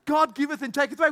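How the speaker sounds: rattled off fast and scornful; scornful quick mock quote. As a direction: spit the verse back quickly with disdain. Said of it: "I hate that verse".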